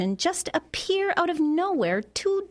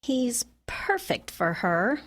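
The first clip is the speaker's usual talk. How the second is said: slow, suspicious appraisal; slower than usual. Acted. Woman doubting her friend's too-perfect suitor, suspicious. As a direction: say the praise slowly, full of doubt. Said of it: "why do you sound so suspicious".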